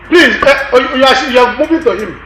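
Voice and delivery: exasperated plea. Acted. Complaining man fussing at seatmate.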